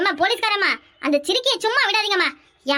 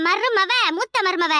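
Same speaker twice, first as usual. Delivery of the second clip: slow emphasis; much slower than usual. Acted. Spelling out which daughter-in-law.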